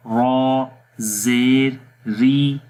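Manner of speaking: ری said light and thin; thin ri drill. Shown as a demonstration. Teacher drills a thin ri with zer for students. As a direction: model a thin ری. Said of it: "اس کو باریک پڑھیں گے".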